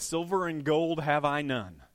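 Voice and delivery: put-on slow, old-fashioned scripture recital; Sunday school King James voice. Pastor quoting Peter the Sunday school way, slow and solemn. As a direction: intone it like the old Bible verse. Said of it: "it sounded like this".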